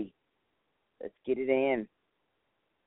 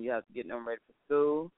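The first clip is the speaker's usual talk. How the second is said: normal talking voice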